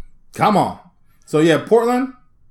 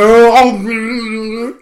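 fake yawn; 3 semitones higher, 4 dB louder, much slower than usual. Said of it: "like, yawn".

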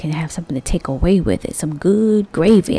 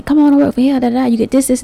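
mock job ad pitch; 7 semitones higher, 5 dB louder, faster than usual. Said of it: "I'm gonna put this ad to say".

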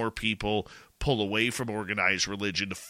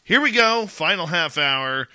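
excited kickoff; 7 semitones higher, 6 dB louder than usual. Real, not acted. Host kicks off final half hour.

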